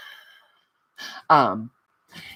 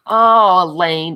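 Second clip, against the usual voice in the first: sympathetic oh; 4 semitones higher, 10 dB louder, much slower than usual. Real, not acted. Elaine upset she missed it.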